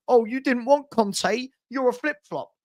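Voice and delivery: slowed, whiny mimicry of the rival fan; mock him like a whining kid; sneering put-on fan voice; mocking childish fan. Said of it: "you're a child".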